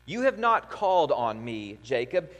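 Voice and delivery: solemn reading of God's words. Acted. Preacher reading God's words to his people, solemnly. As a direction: speak as God calling out Jacob. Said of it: "as the voice of God to God's people".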